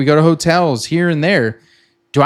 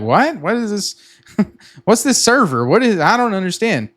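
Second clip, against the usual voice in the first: higher, baffled mock confusion with a laugh; playing his own past cluelessness, half laughing; confused; 5 semitones higher than usual. Explaining VPS to viewers, he replays his confusion, baffled and high. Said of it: "I'm like".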